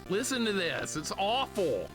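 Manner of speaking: high, whining disgust; exasperated complaint. Real, not acted. Complaining about game music.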